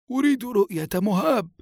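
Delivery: high, resolute demand; grandfather's emphatic firmness; firm demand. A narrator's reading. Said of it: "فقال له الجد بحزم".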